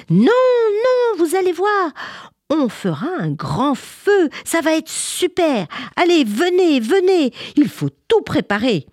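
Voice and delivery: put-on high, loud eager little girl. Little girl urging her friends to prepare, high eager voice. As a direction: coax the others excitedly, very high.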